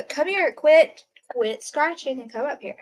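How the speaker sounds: snapping at the cat to quit scratching; scolding the cat. Real, not acted. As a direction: bark one word at the cat.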